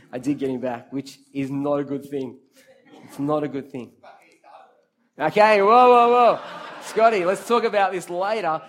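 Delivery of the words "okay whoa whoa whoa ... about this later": loud, raised-pitch whoa to cut someone off; calling a halt. Real, not acted. Preacher cuts off a heckler in the congregation, loud and high. Cutting off heckler Scotty mid-story.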